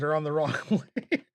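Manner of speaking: words tipping over into real laughter; breaking into laughter. Real, not acted. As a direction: start laughing as you finish the phrase. Laughing at own mistake.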